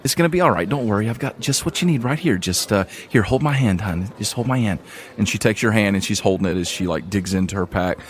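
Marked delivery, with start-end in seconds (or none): 0.0-4.8 lightly voiced motherly tavern woman, soothing; calming the wounded girl, a hint of motherly voice; comforting innkeeper.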